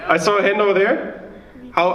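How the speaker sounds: ordinary delivery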